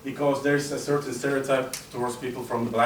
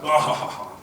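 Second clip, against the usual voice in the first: loud open "oh-ho-ho" laugh; mock group laughter; 4 semitones higher, 4 dB louder than usual. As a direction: burst out in an acted laugh. Group laughing at a Turkish joke.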